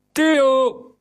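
captain yelling for his man; roaring call. A narrator's reading. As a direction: summon him across the ship with a roar. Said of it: "brulde de kapitein".

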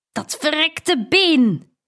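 roaring in pain at his broken leg. A narrator's reading. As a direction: bellow it out in frustrated pain. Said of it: "brulde hij".

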